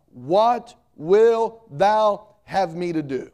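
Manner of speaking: slow, drawn-out pleading cry to the Lord; Saul crying out. Retold or imitated. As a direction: stretch each word like a man struck down. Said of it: "then Saul cries out".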